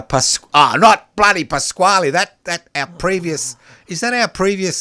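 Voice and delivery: high, loud exasperated outburst; flustered, pitch jumps up. Real, not acted. Fumbling the producer's name.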